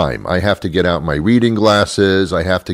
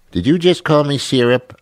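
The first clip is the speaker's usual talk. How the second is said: outraged, high question; indignant surprise; 8 semitones higher than usual. Acted. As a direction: pitch shoots up in disbelief at the pet name. Partner reacts to being called syrup.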